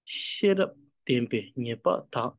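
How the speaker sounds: "Shirap, tempe, nyepa, tha" slowly, a gap after each word; each word of "Shirap tempe nyepa tha" set apart; word-by-word reading. Shown as a demonstration. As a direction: join syllables into words in "Shirap tempe nyepa tha", pausing between words. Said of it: "I'm reading a word together".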